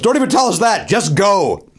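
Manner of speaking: mock heckle, starting high then dropping; exasperated heckler. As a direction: cut the comic off, fed up. Heckler stands up to him.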